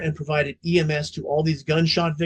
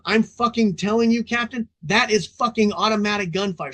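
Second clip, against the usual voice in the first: retold scream; 5 semitones higher than usual. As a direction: yell it like a rookie who won't back down.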